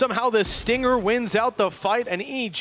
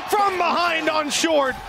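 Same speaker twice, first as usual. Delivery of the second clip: esports caster; 5 semitones higher than usual. Real, not acted. Caster calls triple kill.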